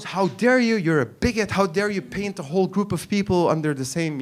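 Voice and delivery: mock indignant wife; imitating an offended telling-off; indignant scolding. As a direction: scold in outrage, lightly acted. Wife retold scolding him as bigot.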